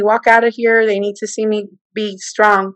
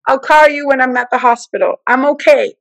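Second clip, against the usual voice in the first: higher, insistent plea; exasperated pleading; 4 semitones higher than usual. Retold or imitated. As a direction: beg her to stop despairing. Pleading with mother.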